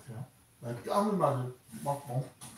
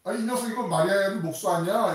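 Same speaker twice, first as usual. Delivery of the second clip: sneering contempt; 6 semitones higher, 7 dB louder than usual. Retold or imitated. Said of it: "예수님 싫어하면서".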